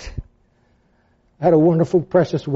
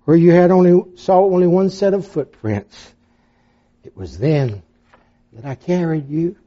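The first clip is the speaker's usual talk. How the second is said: tender reply. Retold or imitated. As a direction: gently reassure a frightened child. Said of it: "The Lord replied".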